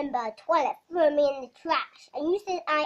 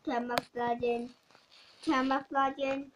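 drawn-out; 2 semitones lower, slower than usual. Pretend. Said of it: "Hey, look, I'm camouflaging".

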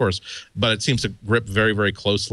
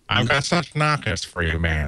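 Billy Crystal as a famous singer. Acted. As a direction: do a hammy showbiz crooner talking. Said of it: "Billy Crystal imitating, uh, Sammy Davis Junior".

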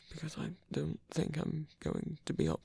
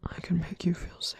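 reassuring whisper. Acted. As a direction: promise safety in a hush.

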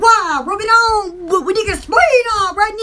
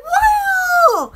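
retold excitement; 3 semitones higher, much slower than usual. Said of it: "I was like".

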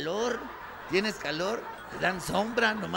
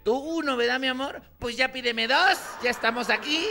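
higher, louder sweet wife; wife ordering; 4 semitones higher, 4 dB louder than usual. Retold or imitated. Wife asking husband about taco order, high and sweet. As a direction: ask sweetly, then order more.

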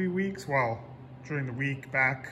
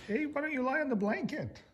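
higher, soft coaxing question; doggy baby talk; 10 semitones higher, 8 dB quieter than usual. Acted. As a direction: coax the dog toward the blanket.

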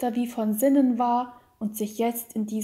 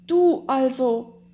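slow, louder emotional cry; tearful outburst; 2 semitones higher, 5 dB louder, slower than usual. A narrator's reading. Count breaking into tears before his wife, slow anguished cry. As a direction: burst out, overcome. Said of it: "brach er in einem Strom von Tränen aus".

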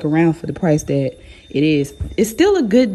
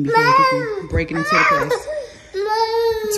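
high, laughing through the words; can't stop laughing while telling it; laughing hard; slower than usual. Real, not acted. Laughing while retelling the scam.

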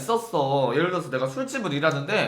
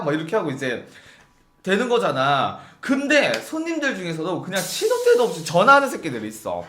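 ordinary delivery

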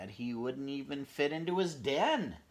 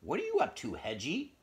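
mama pig; 5 semitones higher, 5 dB louder than usual. Acted.

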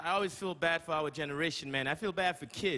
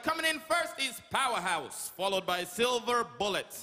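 race announcer. Retold or imitated. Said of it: "It's always like".

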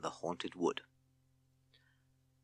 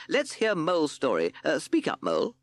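raised, higher captain; loud voice; 8 semitones higher, 3 dB louder than usual. Acted. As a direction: call across for the mole to speak up. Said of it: "in a loud voice".

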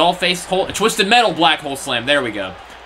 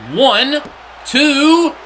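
excited count; 8 semitones higher, 4 dB louder than usual. Real, not acted. Counting the pin live.

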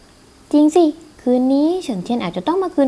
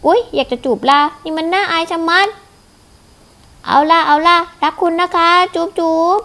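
sugary put-on sweetness for show; fake lovey-dovey; 3 semitones higher than usual. Daughter faking a sweet call to fool family, sugary. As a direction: coo at a pretend lover.

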